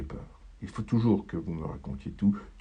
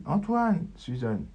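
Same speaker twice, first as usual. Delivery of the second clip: high, loud call; wife calling out for Antoine; Catherine calling; 7 semitones higher, 4 dB louder, slower than usual. Acted. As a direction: call him from another room. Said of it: "Voix de Catherine".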